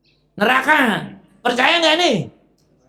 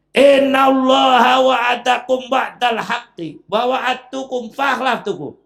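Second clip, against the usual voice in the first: angry Iblis shout; 5 semitones higher, slower than usual. Acted. Iblis shouting his speech at the people of hell. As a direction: roar the verse at the crowd. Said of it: "ini marah".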